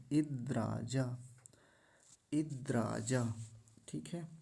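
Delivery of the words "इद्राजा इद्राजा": 'इद्राजा' as id-draa-jaa; no nasal. Shown as a demonstration. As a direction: hold the d, no n, in 'इद्राजा'. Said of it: "इद्राजा ऐसा है".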